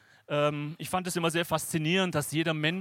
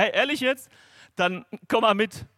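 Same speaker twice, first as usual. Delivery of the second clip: higher and louder, an eager "come on then"; eager reply from God; 4 semitones higher, 5 dB louder than usual. Retold or imitated. God cheerfully accepting the prayer, higher and louder. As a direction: answer like God gladly taking up the challenge.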